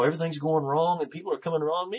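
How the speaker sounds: high, self-pitying complaint; lightly acted woe-is-me lament; pity party. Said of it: "having a little pity party".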